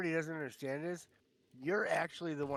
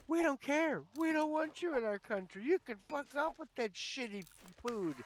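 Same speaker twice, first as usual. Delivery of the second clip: put-on thick Irish accent; 9 semitones higher than usual. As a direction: imitate a thick Irish accent, going off on the French. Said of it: "In this really thick Irish accent".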